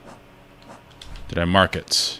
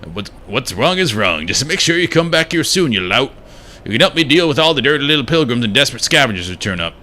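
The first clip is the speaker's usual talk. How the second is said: put-on light southern accent, higher on the call; 6 semitones higher than usual. Streamer voicing the grump in a light southern accent. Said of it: "Now he's southern".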